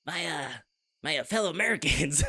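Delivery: a hint of measured presidential address; Obama impression. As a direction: open like a president on TV. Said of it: "Enemy protagonist Obama".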